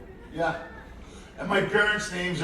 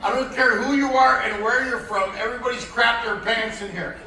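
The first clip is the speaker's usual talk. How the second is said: frantic confession; 4 semitones higher, 5 dB louder than usual. Retold or imitated. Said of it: "I'm like".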